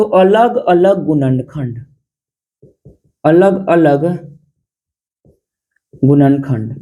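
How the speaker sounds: dictating slowly, word by word for notes; slow dictation. Shown as a demonstration. Teacher to students taking notes, slow dictation. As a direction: spell the key term out slowly for writing. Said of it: "note में लिख लीजिएगा".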